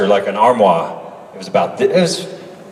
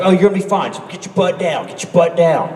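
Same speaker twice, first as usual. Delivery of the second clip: higher-pitched Southern stunt coordinator; Southern accent; 5 semitones higher than usual. Retold or imitated. Stunt coordinator reassuring a young actor, imitated Southern accent. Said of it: "gave him, like, a southern accent".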